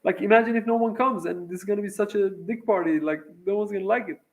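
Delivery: thrilled, tipping into nervous fretting; happy, then worried. Retold or imitated. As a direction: replay the giddy rush, pitched high. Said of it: "I'm so happy now".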